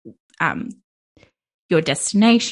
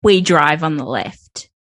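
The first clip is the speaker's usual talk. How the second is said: hammed-up broad Aussie accent; very Australian accent; 4 dB louder than usual. Co-host delivers a pick-up line in character, very Australian accent. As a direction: play a sleazy Aussie old man, accent laid on thick. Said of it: "in a very Australian accent".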